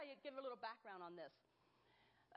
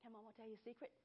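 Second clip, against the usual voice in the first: put-on softer hushed question to a baby; secret to baby; 3 semitones lower, 6 dB quieter, much faster than usual. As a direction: ask it gently like a secret. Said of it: "every time I say".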